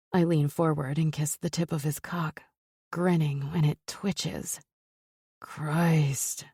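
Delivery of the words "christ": hissed. Acted. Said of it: "he hisses".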